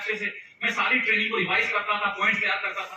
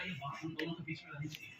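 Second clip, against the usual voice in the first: much softer, hushed secret; secretive hush; 7 semitones lower, 18 dB quieter than usual. Retold or imitated. Senior telling the recruit to keep it secret, hushed. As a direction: drop the voice to a conspiratorial hush.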